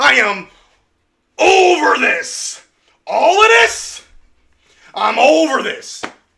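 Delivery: loud, high, fed-up angry yelling. Speaker keeps declaring being over this: yelling. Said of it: "I'm sorry that you're scared that I'm yelling".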